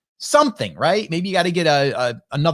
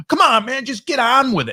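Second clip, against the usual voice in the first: a higher, grumbling complaint, not yelled; mild mock grumble; 7 semitones higher than usual. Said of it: "not yelling it, but he's saying it enough where we could hear him".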